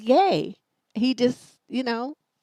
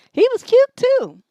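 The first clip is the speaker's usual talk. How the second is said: much higher and louder squeal of delight; excited gush; 13 semitones higher, 8 dB louder than usual. Real, not acted. Woman remembering her cute date, excited gush. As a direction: burst out gushing over him. Sudden gush about the man.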